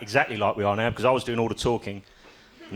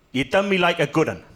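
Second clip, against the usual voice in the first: higher, louder acted Welsh local; impressed pub bloke; 6 semitones higher, 3 dB louder than usual. Bloke hands over the tin tray, impressed pub local. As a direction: play the bloke conceding with respect. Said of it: "he said".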